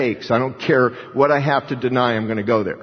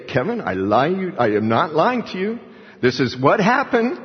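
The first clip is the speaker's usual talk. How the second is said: rising higher, swearing it's true; imitated insistence; 5 semitones higher than usual. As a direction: act out a storyteller pleading to be believed. Romanian stops story, insisting it's true.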